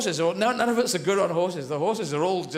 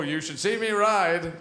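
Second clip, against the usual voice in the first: suggestive line; slower than usual. Acted. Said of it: "Use that one, that's good".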